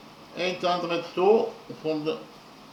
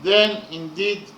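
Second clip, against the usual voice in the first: louder, measured reading of a solemn stanza; poem recitation; 3 dB louder than usual. Acted. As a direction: recite it like an epic poem, with weight. Reads translated stanza aloud.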